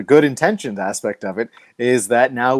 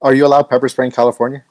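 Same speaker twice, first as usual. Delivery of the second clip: louder, faster repeat; 4 dB louder, faster than usual. Real, not acted. Co-host repeats his question after she asks what's that, louder and quicker. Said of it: "What's that?".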